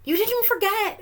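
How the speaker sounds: high delighted yell; yelling together. Acted. Everyone yelling happily at Eraser. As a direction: shout it with glee. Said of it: "everyone yelled".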